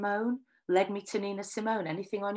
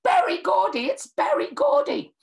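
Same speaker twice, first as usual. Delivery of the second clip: high, loud ecstatic fan scream; 13 semitones higher, 8 dB louder than usual. Retold or imitated. Fan in the audience screaming as Berry Gordy comes on stage, ecstatic high shriek. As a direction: shriek his name like a starstruck fan. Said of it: "screaming at the top of my voice".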